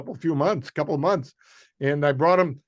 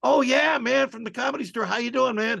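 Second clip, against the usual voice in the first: high, eager hello; excited greeting; 8 semitones higher than usual. Retold or imitated. Comic replaying his own eager phone greeting, pitched up. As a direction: greet him with a jump in pitch. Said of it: "I said".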